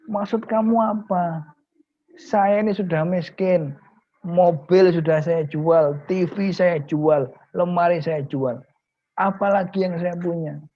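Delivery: high, slow, exasperated complaint; indignant protest. Acted. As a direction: protest that nothing is left to sell. Poor kiai protests selling more.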